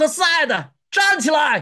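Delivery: high, loud shout. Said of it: "在那大声喊".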